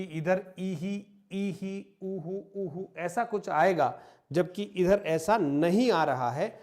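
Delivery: ईही and ऊहू drawn out slowly; slow, stressed explanation of the rule; slow emphatic rule. Shown as a demonstration. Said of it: "जबकि नियम ये था".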